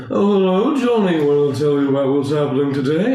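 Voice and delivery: sing-song chatter of a sixties pop singer; impression of a singer. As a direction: do a chirpy singer. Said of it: "imitation of Paul McCartney".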